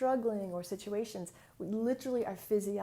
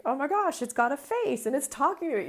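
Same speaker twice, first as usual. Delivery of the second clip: higher, louder amazed gasp; 5 semitones higher, 7 dB louder than usual. Retold or imitated. Client discovering her body has a face, higher and louder in amazement. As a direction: gush it like a wonder.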